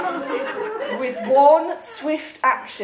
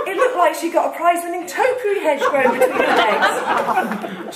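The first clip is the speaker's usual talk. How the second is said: laughing; 4 semitones higher, 3 dB louder than usual. Real, not acted. Reader laughing through narration.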